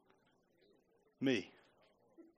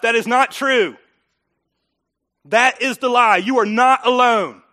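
loud emphatic preaching, slower on alone; forceful preaching voice; preaching emphatically; 3 semitones higher, 7 dB louder than usual. Real, not acted. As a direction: drive it home, NOT alone. Preacher refutes at full force.

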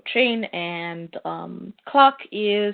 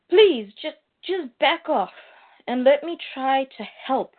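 higher-pitched, halting appeal; urgent plea; 5 semitones higher than usual. Acted. Clark begging Lobo to let him help, acted urgent plea. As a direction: plead with them to back off.

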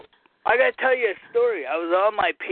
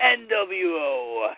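slow, drawn-out ring announcer words; retried wrestling intro; much slower than usual. Acted. Redoing the intro for the hosts, slow and drawn. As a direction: drag out each letter for the intro. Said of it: "I screwed it up again".

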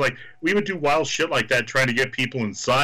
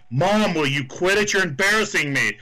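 mock embarrassed son; 5 semitones higher than usual. Wrestler pretending to be the referee's son, whiny. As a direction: play the embarrassed kid to the crowd. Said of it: "and I go".

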